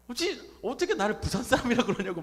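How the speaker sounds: loud, hammed-up offended complaint; mock indignation. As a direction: imitate an outraged churchgoer. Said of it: "막 화를 내시는 거예요".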